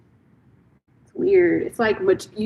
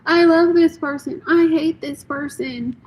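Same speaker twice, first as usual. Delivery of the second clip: swinging love and hate, pitched higher; mocking flip-flop quote; 7 semitones higher than usual. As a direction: mimic a fickle friend, voice up high. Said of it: "One day it's like".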